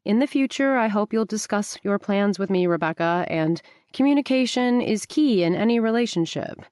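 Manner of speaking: a light mock of a mild proper man; quoting the fiancé's lecture in a prissy tone; mimicking fiancé. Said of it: "He said a lot of things like".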